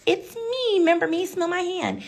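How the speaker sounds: desperate plea. Retold or imitated. Woman desperately calling to husband.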